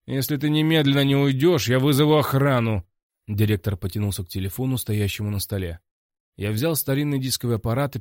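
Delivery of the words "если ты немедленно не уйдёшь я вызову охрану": angry threat. Acted. Director threatens to call guards.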